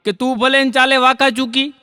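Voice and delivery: lifted line openings, falling rhyme endings; poetry recitation. Acted. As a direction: declaim rhymed couplets to a crowd. Recites rhymed verse to audience.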